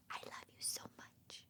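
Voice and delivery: near-silent whisper of love; whispered secret. Acted. Mother whispers mama cow's secret of love to her baby. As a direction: breathe it like a secret. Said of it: "her secret".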